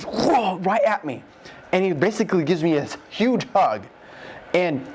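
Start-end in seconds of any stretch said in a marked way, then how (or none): 0.0-0.6 high, breath-driven "whoa" blast; imitated whoosh. God shooting a beam at his heart, imitated whoosh. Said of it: "he just goes".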